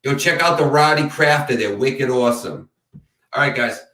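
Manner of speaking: playful Boston local, "Crafter" with no final R; jokey Boston shoutout, R dropped; hammed-up Boston accent. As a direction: lean into the Boston accent, "wicked awesome". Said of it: "point out my accent".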